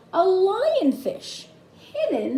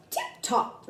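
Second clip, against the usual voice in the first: very high, tiny squeak of a fish; squeaky fish voice; 4 dB quieter than usual. Acted. Mister Bullhead answers happily.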